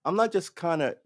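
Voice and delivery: high surprised huh, then half-voiced thought. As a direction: act out the sudden realisation. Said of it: "And I was like".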